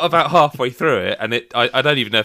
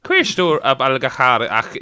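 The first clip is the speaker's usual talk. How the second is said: raised, louder stab at Irish; high Irish accent; 3 dB louder, slower than usual. Shown as a demonstration. Another go at the sentence, overdone Irish accent. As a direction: attack the Irish words in a put-on Irish accent. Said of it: "if you go up high like that".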